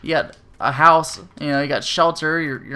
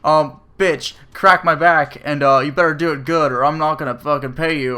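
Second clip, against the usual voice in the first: rude demand; 4 dB louder than usual. Pretend. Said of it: "I'm a pretty polite person. Like, I'm not like".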